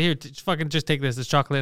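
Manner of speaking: casually brushing it off; dismissive. Retold or imitated. Boyfriend handing his girlfriend chocolate in the car, dismissive. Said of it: "like, dismissive on purpose".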